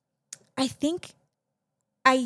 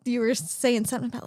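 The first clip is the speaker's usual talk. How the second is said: laughing; 2 semitones higher, faster than usual. Real, not acted.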